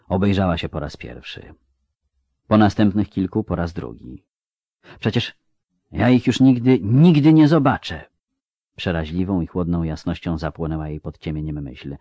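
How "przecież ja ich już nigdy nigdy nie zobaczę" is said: dawning fear. Acted. Ciri pojmuje rozstanie.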